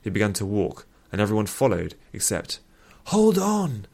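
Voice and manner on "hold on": high, loud shout to stop them; yell. A narrator's reading. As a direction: call out to halt the group. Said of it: "yelled Alran".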